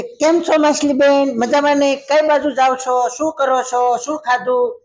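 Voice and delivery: lightly voiced talkative turtle; chatty turtle. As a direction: babble on like a nosy turtle who never stops. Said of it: "બસ પૂછ્યા જ રાખે".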